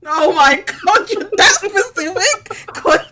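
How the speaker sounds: loud, high, drawn-out disbelief; astonished and on the verge of laughing; real amazement. Real, not acted. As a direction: exclaim it slowly, utterly floored. Amazed at pinpointing Croydon by accent.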